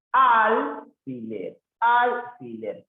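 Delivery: "Alfiler" slow and high, AL held; syllable by syllable. Shown as a demonstration. Teacher checking three syllables, "Alfiler" slow and high. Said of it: "la separación en alfiler".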